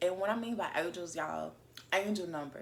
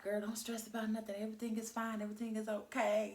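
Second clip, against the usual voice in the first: higher-pitched voice of soothing angels; reassuring angels; 4 semitones higher, faster than usual. Acted. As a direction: lightly act out angels telling a friend not to worry. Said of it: "They like".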